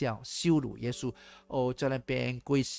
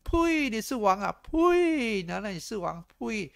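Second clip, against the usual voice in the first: high, loud scornful spitting; contemptuous spitting; 8 semitones higher, 5 dB louder than usual. Retold or imitated. Mockers spitting on Jesus, loud and high contempt. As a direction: spit the words in contempt.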